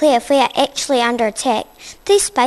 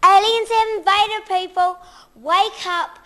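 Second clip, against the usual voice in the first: spooky voice; 8 semitones higher, slower than usual. Acted. Calling out to sleepy crowd.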